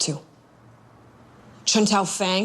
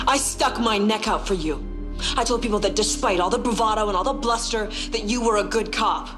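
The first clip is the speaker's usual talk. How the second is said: bitter reproach; 4 semitones higher than usual. Acted.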